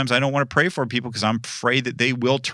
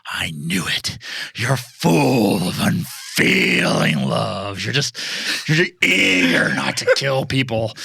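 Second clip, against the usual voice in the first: mocking God voice. Speaker mocking God's unfeeling love. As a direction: grumble it as if to God.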